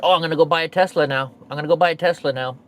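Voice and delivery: fast, loud mock enthusiasm; quick mocking voice; mocking eager buyer. Mocking people who praise Elon.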